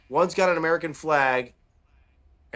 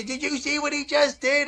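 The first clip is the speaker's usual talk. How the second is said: much higher, mocking voice of an indignant old lady; mock-indignant old woman whining to the crowd; 9 semitones higher than usual. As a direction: squeak it out like an outraged grandma. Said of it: "tried to turn around and say".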